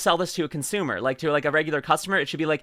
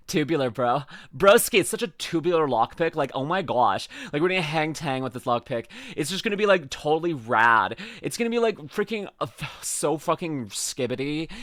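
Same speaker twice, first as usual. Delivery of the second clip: surfer bro voice. Pretend. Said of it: "I broke character".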